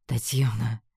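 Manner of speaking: mildly exasperated sigh of a name; deep sigh. A narrator's reading. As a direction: say it on a weary sigh. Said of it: "глубоко вздохнул он".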